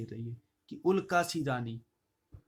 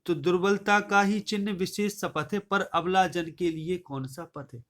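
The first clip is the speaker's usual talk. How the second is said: poem recitation; 2 semitones higher than usual. Shown as a demonstration. Teacher recites the couplet for the class, declaiming. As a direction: lift the couplet out as verse. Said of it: "recites couplet before explaining".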